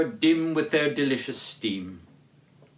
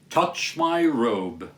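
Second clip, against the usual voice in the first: slow, grave command; solemn ghost; 2 semitones lower, much slower than usual. Acted. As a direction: order it slowly and gravely.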